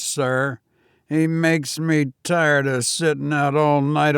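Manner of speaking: put-on a nervous young servant answering his master; young Cockney servant. Thomas scorns the watchman.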